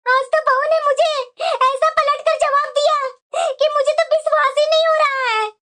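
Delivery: mildly tearful, indignant lament; tearful complaint. Acted. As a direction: complain to your husband through put-on tears. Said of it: "तुम क्यों रो रही है".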